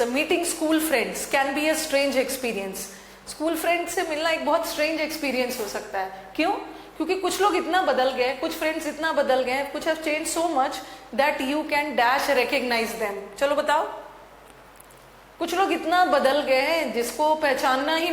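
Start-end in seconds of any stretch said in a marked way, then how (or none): 0.0-2.8 each word spaced out very slowly; slow dictation. Shown as a demonstration. Teacher dictating the English line very slowly. 9.6-13.4 words drawn out very slowly; slow dictation. Shown as a demonstration. Teacher slowly reading out the English line to students.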